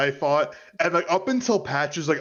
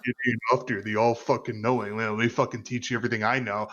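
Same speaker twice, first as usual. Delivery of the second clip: mock trash talk; 5 semitones lower than usual. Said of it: "kinda shit-talking him".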